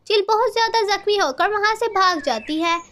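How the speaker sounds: ordinary delivery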